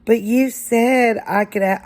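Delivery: put-on a boy cut off mid-complaint; child protesting.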